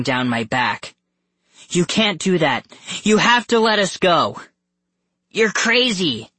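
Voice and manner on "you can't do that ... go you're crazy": high, urgent protest; pitched-up, forceful boy's objection; shouting. A narrator's reading. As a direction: shout back at the captors. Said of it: "Carter shouted".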